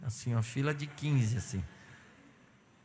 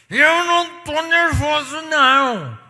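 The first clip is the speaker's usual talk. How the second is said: much higher and louder, slow indignant yell; mock angry shout; 12 semitones higher, 15 dB louder than usual. Angry people yell that they are calm. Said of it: "pessoas que são nervosinhas e iradas".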